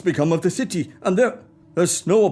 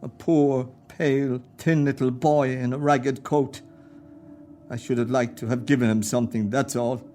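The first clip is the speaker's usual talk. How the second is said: holding back tears; 5 semitones lower than usual. Acted. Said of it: "what is that on your cheek".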